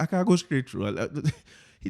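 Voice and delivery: normal talking voice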